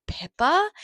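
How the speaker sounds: Pippa jumps up high and loud in alarm; rising alarmed cry on the name. Real, not acted. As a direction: blurt the name out in sudden panic. Panic over dog near cliff.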